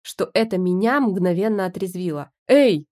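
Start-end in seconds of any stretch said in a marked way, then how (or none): 2.5-2.9 loud, higher barked hey; loud startled bark; barked in husband's voice. Acted. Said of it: "рявкнула я голосом мужа".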